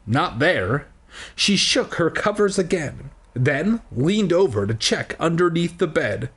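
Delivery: measured read-aloud storytelling; story narration. Acted. Reading a children's book aloud to listeners, storytelling. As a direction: read it out slowly and clearly like a storybook.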